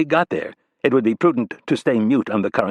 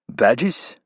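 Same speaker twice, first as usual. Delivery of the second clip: "Badges?" in a mock Mexican accent, rising; quoting the film line "Badges?" in a Mexican accent; 2 semitones higher than usual. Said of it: "Rapp said with a Mexican accent".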